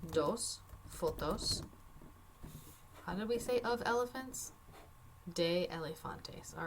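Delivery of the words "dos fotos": dos fotos said slowly, each syllable clear; slow careful Spanish. Shown as a demonstration. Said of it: "so we're gonna say".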